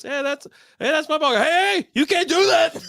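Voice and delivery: high-pitched outraged protest; indignant golfer. Retold or imitated. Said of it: "he goes".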